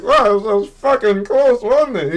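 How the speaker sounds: high, loud imitation of a prankster; mock-thrilled shout; joking daredevil friend. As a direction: whoop it as a fake close call. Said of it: "he would joke with you like that".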